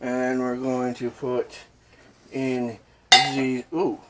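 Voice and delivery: slow mock-French accent; slow down into badly faked French. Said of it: "a really bad French impression".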